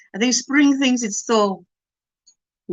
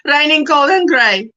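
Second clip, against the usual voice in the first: mock forecast; 3 semitones higher, 3 dB louder than usual. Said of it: "I'll do my own weather".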